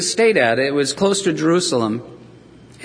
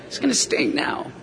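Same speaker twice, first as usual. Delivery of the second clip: soft whisper; whispered aside; 5 semitones higher, 5 dB quieter than usual. Acted. Martha to Jesus, a wry whisper about the smell. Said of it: "that's basically what she said".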